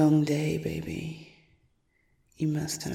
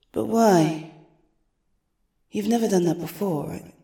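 sharp surprise; 3 semitones higher, 6 dB louder than usual. Acted. Sudden jealous demand.

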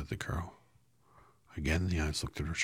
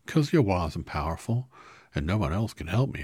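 higher, louder eager straw man; Scarecrow pleading; 4 semitones higher, 8 dB louder than usual. Acted.

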